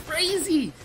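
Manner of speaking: high, loud put-on cackle, slowing; amused teen laughing at the chaos; mock laugh. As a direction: laugh it off like it's all a joke. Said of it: "But I was like".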